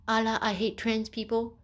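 lightly voiced cartoon bigot; mock bigot. Mocking an obvious bigot, lightly put-on voice.

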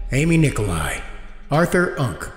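ordinary talk, nothing marked

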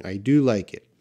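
"do" given the main stress in "I do like it"; emphatic DO. Shown as a demonstration. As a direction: lean on "do" as in spoken emphasis. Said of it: "that's more of speaking".

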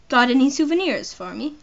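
lightly attempted British accent; British accent, unforced and conversational. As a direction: ask it in a modest British voice. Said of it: "How do I do a British accent?".

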